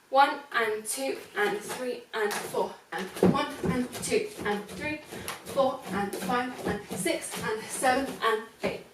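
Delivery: rhythmic dance count, every number on the beat. Shown as a demonstration. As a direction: call out the counts for the class.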